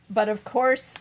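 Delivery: a hint of a suave Pink Panther, course stretched out. To Val in chat, a lightly done Pink Panther tone. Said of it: "said in a Pink Panther tone".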